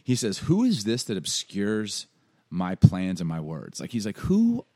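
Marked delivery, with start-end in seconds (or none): 0.4-3.8 slow, emphatic, lightly voiced divine challenge; God. God confronting Job's questions, lightly acted slow challenge. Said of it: "super mafia of God". 4.2-4.7 loud, incredulous mock challenge; God. God reacting to Job's questioning, mock-indignant challenge. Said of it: "This is God".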